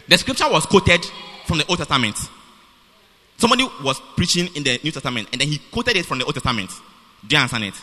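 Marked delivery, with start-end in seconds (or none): 0.1-2.2 said slowly. Shown as a demonstration. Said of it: "let me say it slowly".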